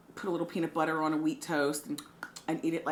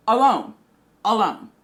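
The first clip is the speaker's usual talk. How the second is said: each alone punched louder, higher and drawn out; dramatic echo; 4 semitones higher, 10 dB louder than usual. Acted. Dramatic echo of her loneliness.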